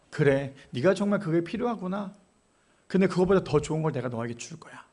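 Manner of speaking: low, gentle promise; kind reassurance. Acted. God kindly answers a greedy prayer.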